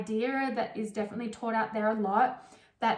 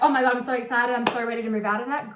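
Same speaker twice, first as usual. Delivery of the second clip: loud, bubbly squeal of excitement; excited gush; 6 dB louder, faster than usual. Retold or imitated. Client bursting out that she is ready, loud gushing excitement. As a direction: burst out thrilled to move on. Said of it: "and you're like".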